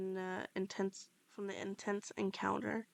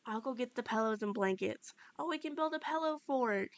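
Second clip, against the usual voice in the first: happy, pitched-up exclamation; joyful; 2 semitones higher than usual. Acted. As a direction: blurt out the pillow fort idea with delight. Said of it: "he joyfully yells".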